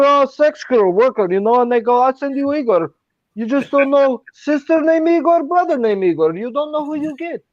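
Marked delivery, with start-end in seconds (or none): 2.0-7.4 put-on Russian accent. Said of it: "your Russian is pretty good".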